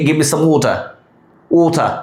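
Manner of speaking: slow, "water" as "waw-tah", no final r; British water. Shown as a demonstration. Teacher modelling British speech, "water" as "waw-tah". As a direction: say "water" with round "o" and open ending. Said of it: "তবে ব্রিটিশরা".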